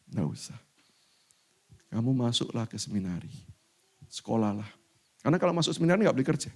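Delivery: gently steady her son; calm mother. Retold or imitated. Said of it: "mama saya menjawab begini". (ibu menenangkan anaknya dengan lembut)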